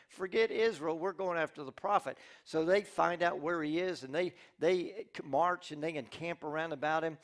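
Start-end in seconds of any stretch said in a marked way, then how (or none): 0.1-2.2 angry king. Acted. Angry king orders attack.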